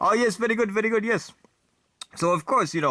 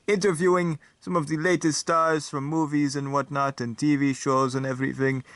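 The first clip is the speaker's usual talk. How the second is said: lightly voiced vampire host, raised in pitch; vampire talk show host; 2 semitones higher than usual. Talk show host welcoming viewers in a light vampire accent. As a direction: greet the audience as a grand vampire host.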